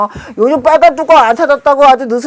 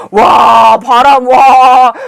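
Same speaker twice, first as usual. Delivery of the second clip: loud, drawn-out wow at the wind; loud amazement; 5 dB louder, much slower than usual. Retold or imitated. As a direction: re-enact being hit by a sea gale. Re-enacting a blast of seaside wind. (바닷바람에 놀라 크고 길게 외치는 감탄)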